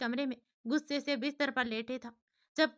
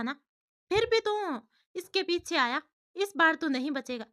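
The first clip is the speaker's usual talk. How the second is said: angry yelling; 3 semitones higher, 3 dB louder than usual. Acted. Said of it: "जोर-जोर से चिल्लाते हुए कहता है".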